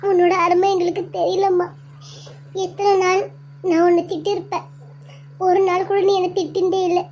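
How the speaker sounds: high, tearful plea to her dead mother; grieving plea. Acted. Daughter begging her lost mother to come back, tearful. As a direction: mourn her, voice aching.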